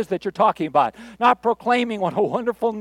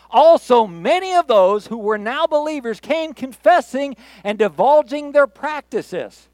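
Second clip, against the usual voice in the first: loud, lifted public Bible reading; scripture reading; 4 semitones higher, 6 dB louder than usual. Acted. Pastor reading Acts to the congregation, loud proclaiming scripture reading. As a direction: proclaim the passage, stretching key words.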